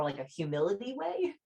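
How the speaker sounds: ordinary delivery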